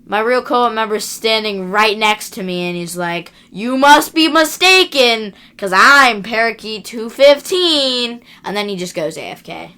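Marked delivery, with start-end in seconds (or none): 3.5-8.2 higher, slow, smug impostor voice; slow, high, fake-friendly Minnesota-style stranger; mock hacker. Hacker insists on identity.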